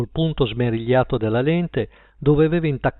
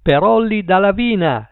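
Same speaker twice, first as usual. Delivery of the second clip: higher, louder announcer voice; shouted DJ line; 6 semitones higher, 4 dB louder than usual. A narrator's reading. Sam the Night Owl shouting back, DJ voice. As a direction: shout the dedication back over the noise. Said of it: "gli gridò di rimando".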